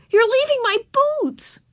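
high, loud wail falling away at the end; wailing child. A narrator's reading. Girl being carried off from her boots, wailing. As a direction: protest in a distressed little voice. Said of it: "she wailed".

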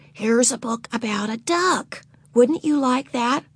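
put-on high, coaxing older sister; coaxing big sister. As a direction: tempt a little sister sweetly. Beezus coaxing.

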